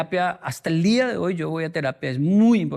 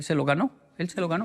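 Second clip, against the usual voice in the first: defiant pride; faster than usual. Retold or imitated. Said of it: "usted levanta la cabeza y dice".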